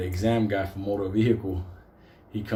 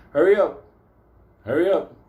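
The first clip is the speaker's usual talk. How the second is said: loud, higher impatient shout; impatient yell; 6 semitones higher, 7 dB louder than usual. Retold or imitated. Driver to a woman crossing the street, impatient yell. Acting out driver yelling at pedestrian.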